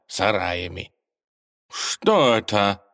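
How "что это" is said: slow, lost little question; bewildered, helpless; helpless babbling. A narrator's reading. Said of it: "беспомощно лепетал американец".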